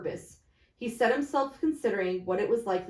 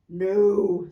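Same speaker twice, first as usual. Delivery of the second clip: louder blunt businessman; lightly voiced fat merchant; 8 dB louder than usual. Fat merchant shrugging off the death, loudly blunt. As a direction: dismiss it offhand.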